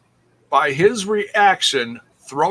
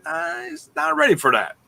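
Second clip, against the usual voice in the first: mock scared Dez; 12 semitones higher than usual. Voicing Dez's fear.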